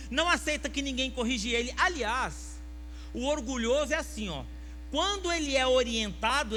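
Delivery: loud, high, driving sermon; fiery preaching. Real, not acted. Pastor preaching loudly to his church about pride. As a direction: preach it hard to the congregation.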